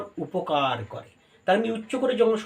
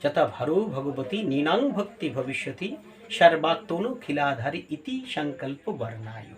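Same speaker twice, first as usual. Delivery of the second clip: scripture recitation; 3 semitones lower than usual. Acted. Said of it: "এটা ভাগবত বলছে".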